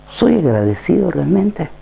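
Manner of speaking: slow searching question. Real, not acted.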